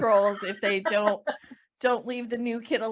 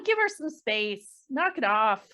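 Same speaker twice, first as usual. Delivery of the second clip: half-yell it, pitched up; a mock telling-off, raised but contained; mild yell; slower than usual. Nick tells crowding fans to give space, mild yell. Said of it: "Nick just kinda yells and says".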